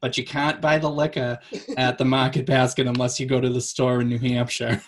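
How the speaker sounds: put-on a touch of Kennedy-style Boston accent; old-timey Boston accent. Friend explaining where liquor is sold, Kennedy-like Boston accent. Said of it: "slipping into the Kennedy".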